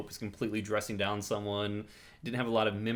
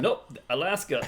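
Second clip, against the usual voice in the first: deadpan pope; 5 semitones higher, 3 dB louder, slower than usual. Retold or imitated. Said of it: "He goes".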